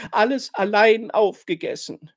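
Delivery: höher und lauter, unter Tränen gestanden; schluchzend. A narrator's reading. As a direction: schluchzend die Schuld bekennen. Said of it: "schluchzt sie". (schluchzendes Geständnis)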